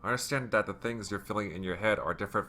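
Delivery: softly voiced, soothing reassurance; Sayori. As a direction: speak gently, comforting an upset friend. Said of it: "Sayori whispers in a soothing voice".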